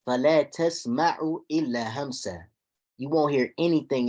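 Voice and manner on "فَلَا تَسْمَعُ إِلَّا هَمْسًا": quick, flowing recited verse; quick tajweed recitation; Quran recitation. Shown as a demonstration. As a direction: chant the ayah fast in one breath.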